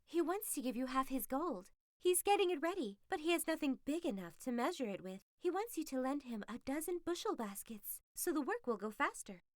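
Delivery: the fox spinning a tale about gold; a hint of a sly fox selling a lie; scheming fox. Fox voiced in story.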